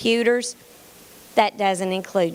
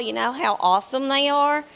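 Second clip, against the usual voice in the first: ordinary talk, nothing marked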